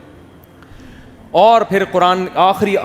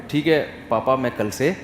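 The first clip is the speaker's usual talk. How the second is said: polite son; 4 semitones lower, 6 dB quieter than usual. Retold or imitated. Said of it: "باپ ایسے بول".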